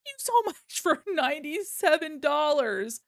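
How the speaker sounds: high, giggly thank-you through laughter; thanking a donor for ninety-seven dollars while laughing. Real, not acted.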